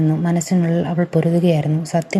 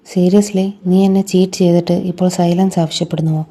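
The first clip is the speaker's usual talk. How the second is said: louder, scornful disbelief; scornful retort; 4 dB louder than usual. Acted. A betrayed fiancée scorning the cheater who asks her silence, louder. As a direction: throw his words back at him with contempt. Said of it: "അവൾ പുച്ഛത്തോടെ ചിരിച്ചു".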